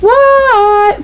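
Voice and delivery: high, drawn-out answer; called reply. A narrator's reading. Froggy answers his mother's call, drawn out. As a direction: shout back from the bedroom.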